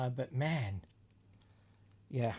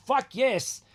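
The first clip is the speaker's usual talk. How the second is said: laughing, higher and louder cheer; retold delight; 9 semitones higher, 7 dB louder than usual. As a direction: whoop at a lucky swap. Retold joy at the trade.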